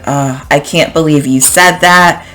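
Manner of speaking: sarcastic. Shown as a demonstration. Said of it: "the other way of saying it".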